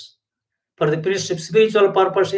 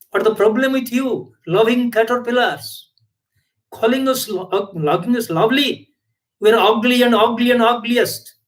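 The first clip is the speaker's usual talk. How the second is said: complaining caterpillars. Acted. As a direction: whine to God about being ugly.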